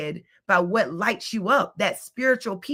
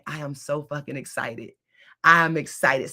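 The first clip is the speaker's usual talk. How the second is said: excited; 4 semitones lower than usual. Retold or imitated. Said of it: "I started saying".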